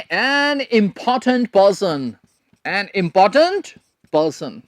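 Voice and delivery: very slow, word by word for writing; slow dictation. Shown as a demonstration. Teacher dictating a meaning to students, very slowly. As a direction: dictate it slowly so they can write. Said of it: "मतलब लिख लीजिए".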